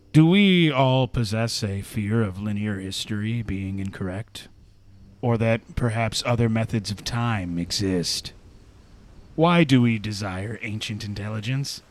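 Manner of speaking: slow, solemn segment read over music; reflective reading. Acted.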